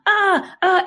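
short, high-pitched cries; mock child's scream. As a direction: imitate a little kid screaming, not at full volume. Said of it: "it's like the high pitched, like, scream".

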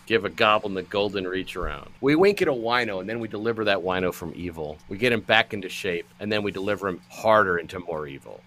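loud, punchy show host patter; show host intro. Acted.

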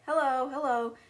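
a hint of a talking bird's call; parrot voice. Parrot greets Matilda and Fred, lightly mimicked. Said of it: "the parrot was just like".

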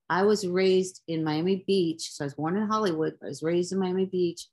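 sniffly, with a runny nose; talking through a runny nose. Real, not acted. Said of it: "my nose is running".

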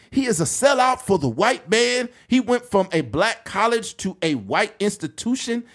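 high-pitched mock orator; Doctor Umar. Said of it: "I listened to Doctor Umar call him".

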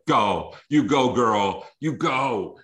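urging the runner on; panicking gamer. Real, not acted. Cheering a player's long touchdown.

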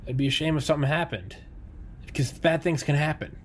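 friendly tone with a veiled threat; smiling menacing loan shark. Pretend. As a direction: lean in like a mobster collecting. Mock mafia shakedown of Tommy.

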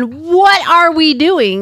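drawn-out mock outcry; slow, exaggerated protest from aching hips; mock screaming. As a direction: play up the complaint, stretching it out. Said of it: "your hips were screaming".

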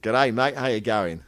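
put-on loud, amateur Aussie accent; attempted Australian accent. Guest tested on Australian lingo, imperfect Australian accent. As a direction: have a go at broad Australian, English roots showing. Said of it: "So give us your version of".

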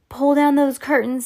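high, urgent shouted order. Acted. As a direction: bark the order to your friends. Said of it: "Sam shouted".

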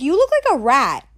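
mock petty thoughts about a jealous friend; petty inner rant. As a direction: sneer it like a catty inner voice. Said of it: "that petty place that I go to".

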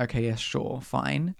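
low-key, soft going-along; dismissive agreement. Retold or imitated. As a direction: humour them with half-hearted agreement. Acted indifferent agreement again.

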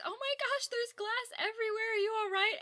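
high, breathless panic; panicking. Retold or imitated. Retelling Connie panicking over broken glass. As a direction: sound like you're losing your mind. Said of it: "Connie is just losing her mind, panicking".

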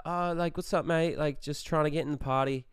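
casual put-on Australian; Australian accent. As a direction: bluff it as an Australian. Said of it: "committed to the Australian accent".

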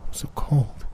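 breathy whisper through the glass; ghostly whisper. Acted. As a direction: whisper it, cold and pleading. Ghostly whisper at car window.

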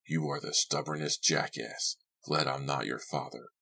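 quiet, understated man's scolding; host, disapproving. Acted. Host calling his guest stubborn, lightly voiced quiet grumble.

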